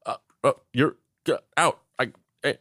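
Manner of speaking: mock befuddled sputtering; Woodrow Wilson. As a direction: choke out broken syllables, lost for an answer. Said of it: "He's like".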